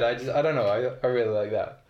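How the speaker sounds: ordinary talk, nothing marked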